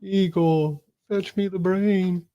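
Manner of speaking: high, slow mad scientist voice; cackling mad scientist giving orders. Pretend. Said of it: "Can you say that like a mad scientist?".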